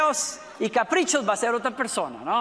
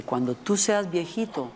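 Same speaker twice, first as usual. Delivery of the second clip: low, slowing, gently reassuring; tender retold promise; 9 semitones lower, 3 dB quieter than usual. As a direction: retell a daughter's loving promise, low and unhurried. Daughter promises to care for father.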